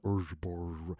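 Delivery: put-on lip-flapping drunken babble; mock incoherent brr; drunk mumble. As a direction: mumble nonsense like a drunk sailor. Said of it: "I'm talking like".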